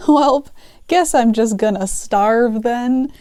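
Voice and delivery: mock resignation, slowing toward the end; resigned. Cashier accepting a shift without lunch, mock resignation. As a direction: give up with comic acceptance. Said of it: "kinda resigned myself to my fate".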